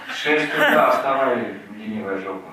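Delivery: loud barked order; drill sergeant. Retold or imitated. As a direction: yell it like an army sergeant. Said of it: "parents are like drill sergeants".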